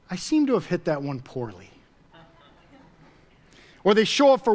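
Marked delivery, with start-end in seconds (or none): 0.1-1.7 lower, mock-polite understatement; absurdly unbothered, pitched down a little; mock composure. Preacher mimics golfers who would never talk so mildly, mock composure. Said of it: "No, they get fired up".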